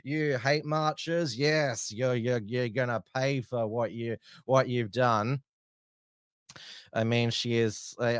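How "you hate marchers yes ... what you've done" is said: high, hammed-up stern politician; lightly voiced stern minister; mock Home Secretary threat. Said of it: "she's like".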